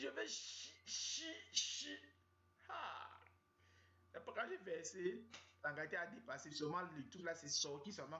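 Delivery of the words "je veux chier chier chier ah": high, rising desperate whine; desperate girlfriend. Retold or imitated. Girlfriend desperate for the toilet, high whine. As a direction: climb higher with each word, desperate. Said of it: "elle dit".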